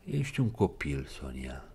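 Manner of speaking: quiet, fading words; softly. Acted. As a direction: say it low and gentle. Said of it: "rosti el încet". (încet, stingându-se)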